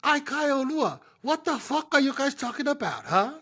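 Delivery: a hint of an exasperated elder telling them off; annoyed uncle figure. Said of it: "Steven Setu be like".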